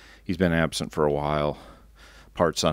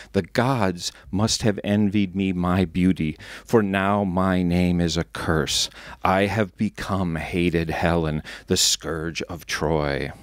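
slow, declaiming schoolgirl actress, not much louder; clear stage voice; slower than usual. Acted. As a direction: recite Helen's lines as if on stage, unhurried. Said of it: "I say in a loud, clear voice".

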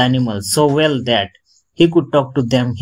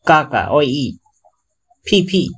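bird language; 2 semitones higher than usual. Acted. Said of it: "in bird language".

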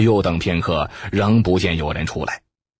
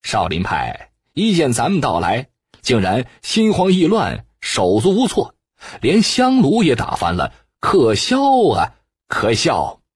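scornful, mocking the fled monks, pitch jumping higher; cold sneering laugh; 3 semitones higher than usual. Shuo Bude mocks the panicked Shaolin monks, with a cold sneer. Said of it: "说不得冷笑道".

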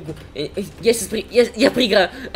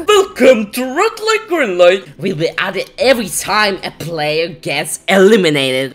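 announcer voice; 5 semitones lower, slower than usual. Acted. Game announcer clip.

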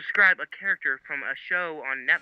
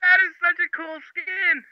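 excited; 12 semitones higher, 4 dB louder, slower than usual. Real, not acted. Excited reaction to skin.

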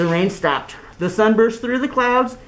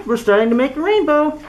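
leprechaun voice; 7 semitones higher than usual. Acted.

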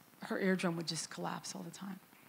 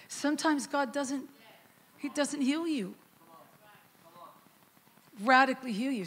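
preaching emphasis; 6 semitones higher than usual. Real, not acted. Preaching climax.

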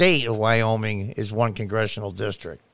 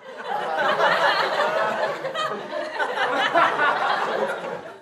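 high, scornful laugh at the news; burst of laughter. Real, not acted. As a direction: laugh it off as absurd. Mocking a CNN headline.

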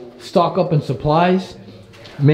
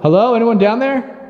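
calling out; 9 semitones higher than usual. Real, not acted. Calling down the tunnel.

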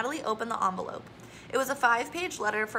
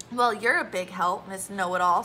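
louder, sarcastic snap; snapped; 4 dB louder than usual. Acted. Natalie snapping sarcastically back at Zoe, louder. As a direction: bite back at a bossy friend. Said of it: "snapped Natalie".

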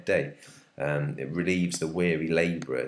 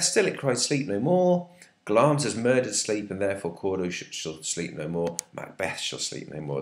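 dramatic reading. Acted. Reads Macbeth's lines aloud.

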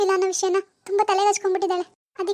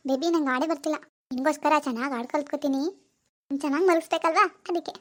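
put-on lower, hushed young woman lost in a delusion; disturbed daughter; 4 semitones lower than usual. Daughter Swathi's role voice.

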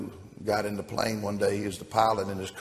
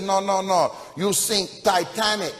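accusing character voice; 9 semitones higher than usual. Acted. Co-pilot accuses the pilot.

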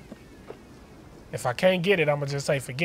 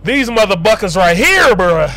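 being chased; 4 semitones higher, 9 dB louder than usual. Real, not acted. Complaining loudly after chase.

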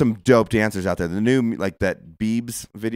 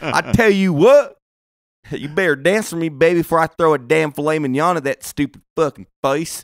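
mock tough guy shout; 6 semitones higher, 6 dB louder than usual. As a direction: bark it like a drunk big spender. Mock strip club patron yelling.

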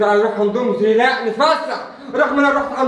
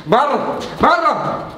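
angry shout; much slower than usual. Acted. Husband throwing his wife out again, angry shout. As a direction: drive her out, yelling.

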